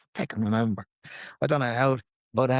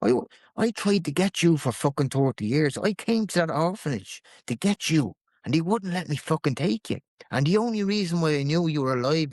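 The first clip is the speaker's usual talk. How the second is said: higher-pitched, mildly heated retelling; retold angry tirade; 4 semitones higher than usual. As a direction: pour out his grievance with restrained temper. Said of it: "He lost the head".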